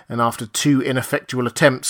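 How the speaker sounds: ordinary delivery, nothing marked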